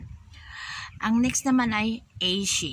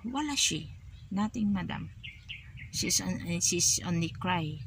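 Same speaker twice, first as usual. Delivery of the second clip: soft reassuring reply; 5 dB quieter than usual. Shown as a demonstration. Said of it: "sabi mo".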